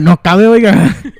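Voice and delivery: slow, laughing mock complaint; laughing mock quote. Quoting the customer in Spanish, slow and laughing. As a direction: drag it out while laughing.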